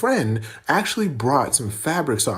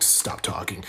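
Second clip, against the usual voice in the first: muttered order; 9 semitones lower, 7 dB quieter, slower than usual. Retold or imitated. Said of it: "he was like".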